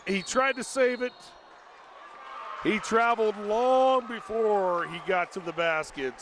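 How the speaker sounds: live game call with sudden shouts; play-by-play. Real, not acted. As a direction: ride the action as it unfolds.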